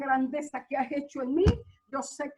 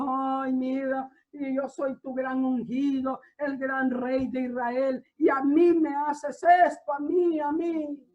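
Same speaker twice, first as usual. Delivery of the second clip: self-pitying complaint. Retold or imitated.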